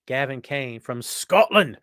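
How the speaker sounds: slow, drawn-out ring introduction; announcer intro. Acted. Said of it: "You knew I was gonna do that".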